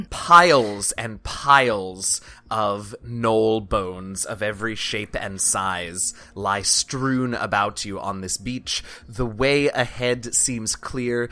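slow, low scene-setting read; game master narration. Acted. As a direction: paint the scene slowly.

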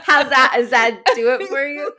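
hammed-up husky chain-smoker voice; smoker rasp. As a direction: push the rasp like an old smoker. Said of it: "When I sound like an old eighty-year-old chain smoker".

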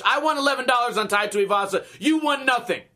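usual speaking voice

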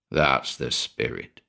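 a low pleased grunt of approval. A narrator's reading. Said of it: "Cranston replied".

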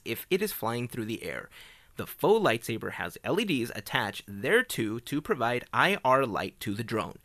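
reading a patent text out steadily; reading aloud. Acted. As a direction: read the patent like a formal document. Reads patent description aloud.

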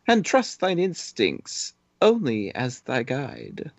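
put-on lofty wise old mentor; hammy stage actor. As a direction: declaim the advice grandly. Obi-Wan instructing Luke.

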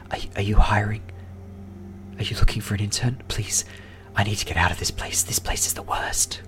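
urgent whisper, leaning in; whispering clerk. Acted. Clerk secretly begs the adventurers for a job, whispered. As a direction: beg in a hushed secret voice. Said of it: "why are we whispering".

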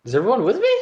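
calling out. Acted. Character calling to team.

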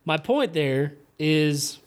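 slow Southern drawl; Southern accent. Real, not acted. Podcaster slipping back into the accent mid-point, Southern drawl. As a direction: stretch it out with a Southern twang. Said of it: "I just sounded Southern".

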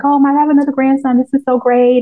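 high, quick, overjoyed grandfather; excited king. Retold or imitated. Viewer imitating the king welcoming his grandson, excited and high. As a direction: gush like a thrilled grandpa. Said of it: "He's like".

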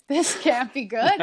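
slow, amused dread; half-laughing. Retold or imitated. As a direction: chuckle at your own nerves. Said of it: "kinda laughed at myself".

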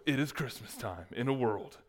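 hushed take on a trailer voice-over; movie trailer announcer. Acted. Pastor retrying his mock movie trailer opening, understated announcer voice. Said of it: "movie trailer announcer voice".

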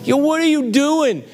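high, bright "Yo, what are you doing?" called up a tree; casual friendly call-out. Retold or imitated. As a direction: call up to the man in the tree, buddy-style. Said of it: "but I imagine this".

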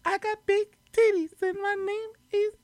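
high, breathy falsetto; high falsetto boast. Pretend. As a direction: say it in a high girly voice. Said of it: "give me some samples".

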